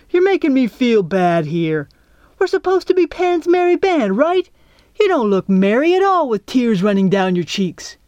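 put-on exasperated kid rallying the group; blustering Pudge, exasperated. A narrator's reading. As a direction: chide them with awkward bluster. Pudge scolds crying friends.

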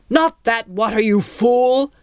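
loud snarling pirate captain. Acted. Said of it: "the captain snarled".

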